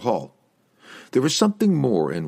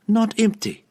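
high, loud superior correction; 4 dB louder than usual. A narrator's reading. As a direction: correct him smugly. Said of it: "her superior tone".

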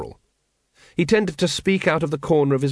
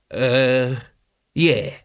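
uncertain. Acted. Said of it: "said Nobby uncertainly".

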